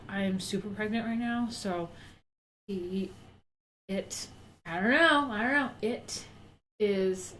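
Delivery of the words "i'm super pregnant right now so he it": whispering. Real, not acted. Breathy aside about pregnancy.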